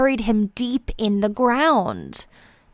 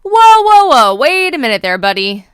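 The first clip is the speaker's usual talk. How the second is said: alarmed protest; 3 semitones higher, 8 dB louder than usual. A narrator's reading. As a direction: stop the squirrel in a hurry. Squirrel nibbling acorn.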